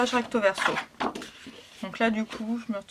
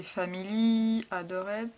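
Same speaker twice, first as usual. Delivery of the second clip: French-accented English; slower than usual. Real, not acted. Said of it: "excusez-moi pour mon accent anglais".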